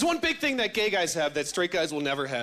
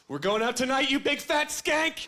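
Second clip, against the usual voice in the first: higher, slow drawn-out sassy insult; mock sassy greeting; 6 semitones higher than usual. Gay friend greeting the girlfriend, a hint of sassy drawl. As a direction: sass her like an old friend. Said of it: "he looks at her and he goes".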